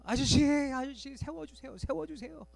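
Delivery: urgent shout. Retold or imitated. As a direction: stop the bus, now. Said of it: "소리를 치는 거예요". (다급하게 외치는 엄마)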